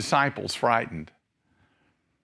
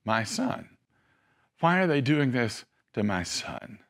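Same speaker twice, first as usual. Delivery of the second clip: mother's lament; 3 semitones lower, 4 dB quieter than usual. Retold or imitated. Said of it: "She was there at the foot".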